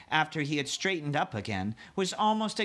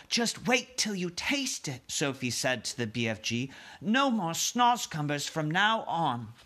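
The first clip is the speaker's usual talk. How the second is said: put-on girl's voice; 4 semitones higher than usual.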